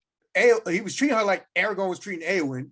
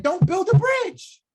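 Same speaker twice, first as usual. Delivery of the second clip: slow, higher, louder warning; Gwendor's warning; 11 semitones higher, 6 dB louder, slower than usual. Retold or imitated. Host quoting Gwendor's warning to Turin, slow and emphatic. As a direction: drag out the warning like a stern counsellor. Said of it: "Gwendor had said".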